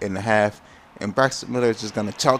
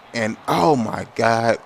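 shocked gasp; 2 semitones higher, 5 dB louder, much slower than usual. Real, not acted. Watching his defense drop a pick, loud shocked oh. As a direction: cry out at the dropped pick. Another dropped interception.

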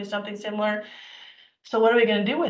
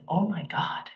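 breathless whispered disbelief; shocked whisper; 4 dB quieter than usual. Retold or imitated. Hearing she drank daily, whispered shock. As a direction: gasp it out under your breath.

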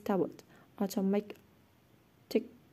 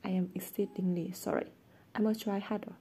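mock apology.

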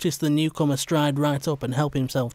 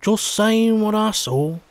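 slow, higher, put-on indifference; feigned boredom; 8 semitones higher, 4 dB louder, slower than usual. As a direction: act bored while hiding a smirk. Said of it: "making an attempt to sound bored".

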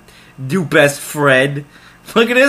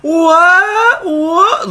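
high, loud baffled yelps; startled disbelief; shocked what; 12 semitones higher, 4 dB louder than usual. Real, not acted. Reacts to shocking game event.

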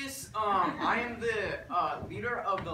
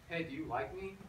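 "Hey, do you like me?" softly, with no swoops in pitch; deadpan "Hey, do you like me?" on one level tone; flat, toneless; 6 dB quieter than usual. Shown as a demonstration. Language teacher modelling for class, "Hey, do you like me?" said flat. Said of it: "you want to just go flat".

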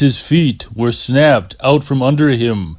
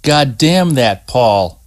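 grind out the curse at Paul; furious swearing. Acted. Scott hanging in the snare curses Paul, slow understated fury. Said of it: "Scott swore furiously".

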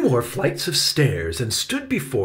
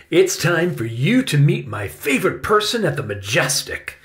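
higher, lively uncle character; eager uncle; 6 semitones higher, 4 dB louder than usual. A narrator's reading. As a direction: announce a treat to your nephew.

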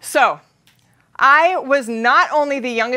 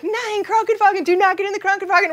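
warning friend; 7 semitones higher than usual. Retold or imitated. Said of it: "he's like".

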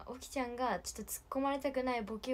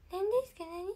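much higher, louder puzzled questioning; squeaky, bewildered mimicry of herself; Oki-chan's impression of me; 9 semitones higher, 6 dB louder than usual. Oki-chan copying the streamer, high mock confusion. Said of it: "おきちゃんも私の真似をします".

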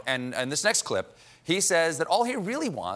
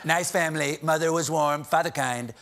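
mock president drifting into a grim childhood memory; Donald Trump.

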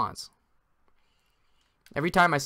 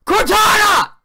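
high, loud furious yell; furious shout; 13 semitones higher, 8 dB louder than usual. Real, not acted. Gamer screaming at Cortana for minimizing his game. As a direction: scream at the assistant.

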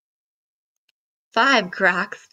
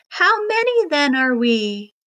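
calling out; 5 semitones higher, 3 dB louder than usual. Acted. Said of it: "cried out".

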